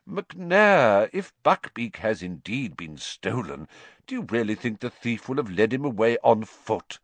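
mildly amused reasoning; a touch of teasing doubt. Acted. Dumbledore doubting the executioner's theory, mildly amused. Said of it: "still sounding amused".

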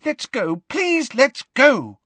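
very high, drawn-out frightened plea; high-pitched, terrified. A narrator's reading. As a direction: beg to leave in panic. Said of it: "in a high-pitched and terrified voice".

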